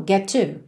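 "Get to" with one t; linked single sound. Shown as a demonstration. Teacher shows learners the link, one T sound. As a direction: run "Get to" together as "geh-too". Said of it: "você liga num som só".

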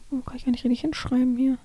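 fast whispered aside; whispering. Real, not acted. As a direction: whisper it to yourself quickly. Aside while writing answers.

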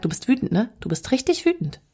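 soft and gentle, naming the feeling; calmly mirror a small child's anger back to him; soothing to child. Retold or imitated. Mother softly names her four-year-old's anger. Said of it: "dass ich zu dem hingehe und sag".

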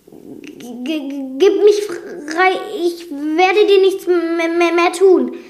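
high, stammering terrified plea; loud, slow stuttered begging; pleading. A narrator's reading. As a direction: beg for your life, stuttering. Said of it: "flehte Gaston".

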